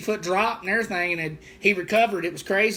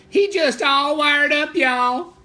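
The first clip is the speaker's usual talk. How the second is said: put-on voice; 6 semitones higher, 5 dB louder, much slower than usual. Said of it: "Like when I do in different voices".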